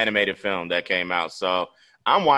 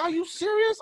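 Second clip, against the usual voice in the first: high, disbelieving squeal; incredulous high squeak. Retold or imitated. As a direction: squeak it like you can't believe her. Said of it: "I was like".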